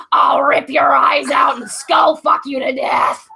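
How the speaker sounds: hammed-up vigilante growl; Christian Bale's Batman. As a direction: growl it like a dark avenger. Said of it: "my voice dropped about a half an octave".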